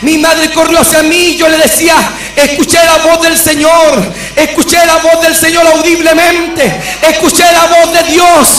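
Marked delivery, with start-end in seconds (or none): 2.3-8.5 raised, urgent preaching cry, building; retold shouting. Son telling his mother he heard God, retold shouting. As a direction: retell an excited cry, growing more intense. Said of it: "empecé a gritar".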